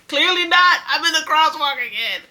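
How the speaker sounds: high, loud exasperated wail; retold crying outburst. Hit pedestrian answering the driver, retold wailing outburst. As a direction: burst out loudly, re-enacting an upset cry. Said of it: "bust out crying".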